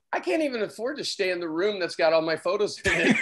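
laughing through the quote; rueful joke. Retold or imitated. Photographer joking to the hosts about the hotel, laughing. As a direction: chuckle at the irony. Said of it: "and I'm like".

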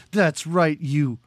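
slow retold taunt, dragging out Russian; said like a slur. Podcaster mocking a movie hero's insult, said like a slur. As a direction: spit the name out as a slur. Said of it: "as though it's a slur".

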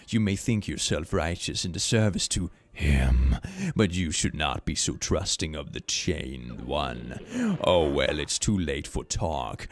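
slow, low, condescending villain; unhurried threat from a game boss; menacing boss. Acted. Reads out a boss's lines.

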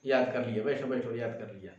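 gently pleased "शाबाश", lightly voiced; a hint of a proud teacher telling a pupil to sit; pleased praise. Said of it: "खुश होकर के".

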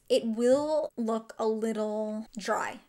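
slow confidential whisper. Real, not acted. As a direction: whisper it slowly like a secret. Confiding makeup tip aside.

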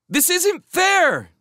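loud, high, slow outburst; a girl who keeps losing at cricket cries out loud; frustrated cry. Acted. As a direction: wail it like a beaten child. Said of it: "she cried".

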